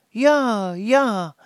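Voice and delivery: high, loud eager yes; eager shout. Acted. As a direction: call out yes, yes, all keen. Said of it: "riefen die Waldmännlein".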